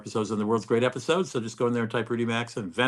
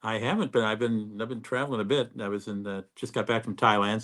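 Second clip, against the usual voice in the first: jet lagged; 4 dB quieter than usual. Real, not acted. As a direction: sound worn out after a long flight. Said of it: "so if I sound a little jet lagged".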